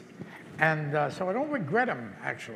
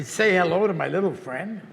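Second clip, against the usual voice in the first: movie line; 6 dB louder than usual. Retold or imitated. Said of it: "with a big old rocket gun".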